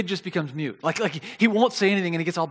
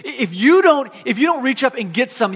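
mom's raised-voice ultimatum; firm, louder warning; out of patience; 5 semitones higher, 5 dB louder than usual. Retold or imitated. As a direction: imitate a parent at the end of her rope. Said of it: "She's no more patience left".

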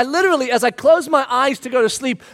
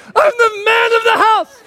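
defiant boast; 10 semitones higher, 4 dB louder than usual. Retold or imitated. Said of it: "I shut the door 'cause I'm like".

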